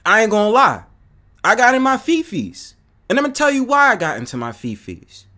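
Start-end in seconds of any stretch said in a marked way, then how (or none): 0.0-2.7 louder, higher; emphatic confession. Real, not acted. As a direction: admit it boldly. Admitting he got heated.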